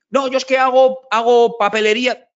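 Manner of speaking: hammed-up pitch from a speed networking guest; mock sales pitch. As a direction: parody a stranger pushing his business. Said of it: "la gente me cuenta en tres minutos lo que vende".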